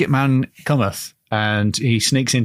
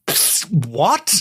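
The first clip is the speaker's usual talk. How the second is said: spit take; 6 semitones higher than usual. Shown as a demonstration. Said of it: "the audio version of a spit take".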